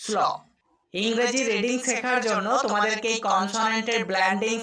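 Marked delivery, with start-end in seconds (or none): 0.0-0.2 স্ল as one joined s-l sound; s running straight into l in স্ল; blended "sl" sound. Shown as a demonstration. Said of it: "স্ল sound উচ্চারণ হবে".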